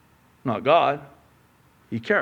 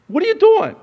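much higher, loud "what are you doing"; exasperated disbelief; mock astonished God; God's incredulous question; 8 dB louder, faster than usual.

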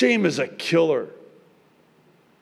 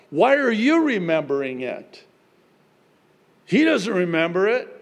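normal talking voice

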